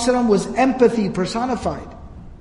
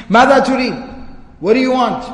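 raised, disdainful retort; 3 semitones higher, much faster than usual. Retold or imitated. Abu Jahl answers the Prophet at his door, disdainful. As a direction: answer an unwelcome caller with disdain. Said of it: "you could hear the disdain in his voice".

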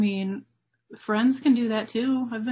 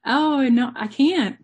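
loud, higher put-on Aussie accent; Australian accent; 5 semitones higher, 6 dB louder, slower than usual. Shown as a demonstration. Guest trying out an Australian accent for the host. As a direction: try on an exaggerated Australian accent. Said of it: "Can you do an Australian accent".

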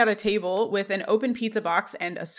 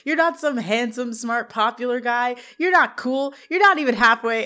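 eager, pushing each not; a retold, light excited pitch; 3 semitones higher than usual. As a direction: keep up the excitement, mildly acted. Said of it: "still excited".

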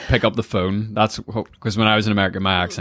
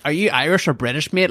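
higher-pitched quoted question; mock questioner; 8 semitones higher than usual. People asking a Northern Irish person their nationality, mock questioning. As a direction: put on a pestering questioner's voice.

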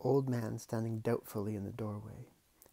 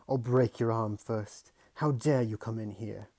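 furious man; 8 dB louder than usual. Acted. Furious uncle.

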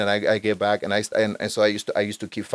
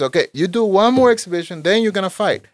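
coach voice; 9 semitones higher, 4 dB louder than usual. Retold or imitated.

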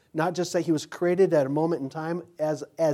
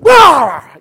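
loud barking snap like a guard dog; 13 semitones higher, 22 dB louder than usual. Retold or imitated. The pit bull lunges at Mark with a loud bark. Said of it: "I was like".

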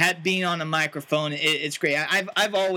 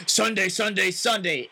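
monster truck announcer; 3 semitones higher than usual. Shown as a demonstration. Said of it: "and then I had, you know".

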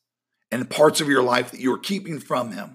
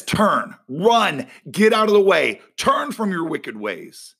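God commanding; 4 semitones higher than usual. Acted. Preacher voicing God's command to turn and run. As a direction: call it out like an urgent warning. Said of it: "He says".

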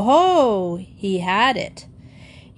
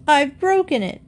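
pained cry; 7 semitones higher than usual. A narrator's reading. Boy still hurt, yelling.

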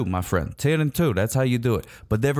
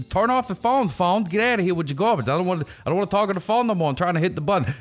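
mock exasperation; 7 semitones higher than usual. Acts out arguing with his phone.

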